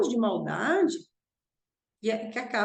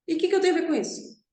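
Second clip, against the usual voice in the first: ironically "delicate" retort; 5 semitones higher, much faster than usual. Retold or imitated. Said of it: "bem delicado".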